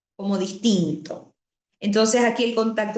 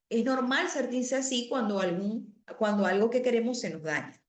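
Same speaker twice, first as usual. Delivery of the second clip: empathetic and gentle; 4 dB quieter than usual. Shown as a demonstration. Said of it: "soy empático y digo".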